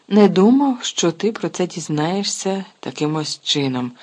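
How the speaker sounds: flustered outburst, slowing down; agitated. Acted. Mr Weasley flustered that Harry found out, agitated. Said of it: "розхвилювався містер Візлі".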